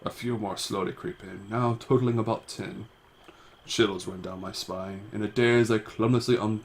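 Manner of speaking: measured read-aloud of an adventure tale; story narration. A narrator's reading. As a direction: narrate the game text like a story. Reads the game text.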